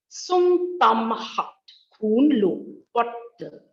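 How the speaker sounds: SUNG held long on a level pitch; slow recited tone drill opening on a level SUNG; high level tone. Shown as a demonstration. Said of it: "this is the high level tone".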